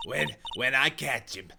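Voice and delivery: put-on huffing and puffing old smoker; hammed-up puffing, out of breath; wheezing smoker character. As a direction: grunt between greetings as if winded.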